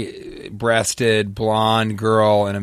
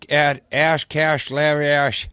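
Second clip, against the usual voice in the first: put-on old prospector voice; slower than usual. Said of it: "That's an old prospector trying to tell you his Twitter handle".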